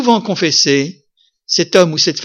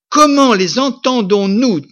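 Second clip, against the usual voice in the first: raised and slowed in mock wonder; amazed crowd quote; 7 semitones higher, 3 dB louder than usual. Preacher voices the marvelling crowd, high and slow. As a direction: lift it up high, slow and astonished. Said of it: "disent-ils".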